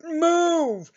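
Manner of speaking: mock cop shout; cop yelling. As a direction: snap the order. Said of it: "shotgun pointed at your head".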